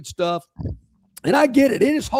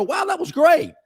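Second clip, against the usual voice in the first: fond recollection; 5 semitones higher than usual. Retold or imitated. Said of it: "you'll reflect on and go".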